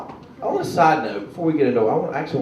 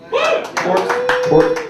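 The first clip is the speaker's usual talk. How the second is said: hype shout; 3 dB louder than usual. Acted. Hyping the crowd.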